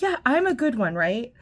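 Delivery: high, eager voice fishing for approval; hammed-up needy lady; mocking the lady. Lady seeking reassurance.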